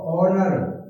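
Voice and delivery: "ऑनर" starting on a clean O vowel; silent H. Shown as a demonstration. Teacher showing why honour takes "an", H silent. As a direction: pronounce "ऑनर" without any H. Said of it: "एच silent है".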